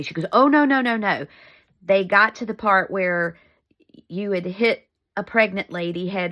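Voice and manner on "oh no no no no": imitated motherly denial, starting high and loud; loud high first word, then easing down; emphatic denial. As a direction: brush it off with a run of noes. Mom hastily denies sending money.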